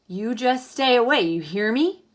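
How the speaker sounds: lightly voiced stern Pa, warning her off; stern father warning. Pa warns his daughter to stay away from the egg, firm and loud. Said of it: "he said, pointing a finger".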